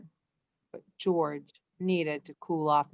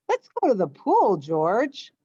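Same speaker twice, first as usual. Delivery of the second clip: eager invitation; 2 semitones higher, 5 dB louder than usual. Acted. Man's line in read story.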